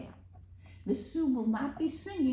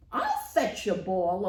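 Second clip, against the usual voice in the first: a touch of a loud frog croak; lightly voiced frog, a bit louder; 2 semitones lower, 6 dB louder than usual. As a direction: call it out like a frog. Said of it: "a loud voice croaked".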